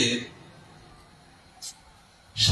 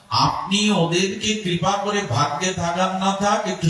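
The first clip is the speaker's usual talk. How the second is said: pleading Parvati; 5 semitones higher than usual. Acted.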